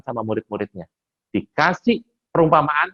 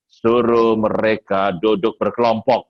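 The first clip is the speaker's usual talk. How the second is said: calm answer; 3 semitones lower, 3 dB louder, slower than usual. Retold or imitated. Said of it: "Dia cuma jawab gini".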